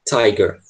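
"Tiger" said clearly as TAI-ger; model pronunciation. Shown as a demonstration. Teacher repeating for the class, "Tiger" with a long i. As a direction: repeat "Tiger" slowly for students, eye sound first. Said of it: "Esse I vai ter som de I".

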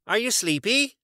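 high, innocent moose voice; Morris the moose. A narrator's reading. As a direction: ask it high and guileless. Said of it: "Morris asked".

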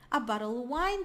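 BOTTLE OF WINE linked, OF reduced to "uh"; soft, vanishing V. Shown as a demonstration. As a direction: link "bottle of wine" without sounding the V. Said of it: "às vezes sai bem suave".

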